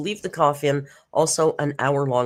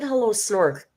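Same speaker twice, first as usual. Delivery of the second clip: high-pitched exasperated mock disgust; playfully fed up, pitched up with a drawn-out "God"; 6 semitones higher, much slower than usual. Streamer teasing Snork about a hello, mock disgusted. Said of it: "I said it with disgust".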